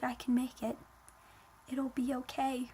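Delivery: soft, subdued brave front; trying to be strong. Retold or imitated. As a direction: quietly reassure yourself, acting it out. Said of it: "I was trying to be strong".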